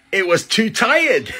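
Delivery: high punchline through a laugh. Acted. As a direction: giggle the punchline out.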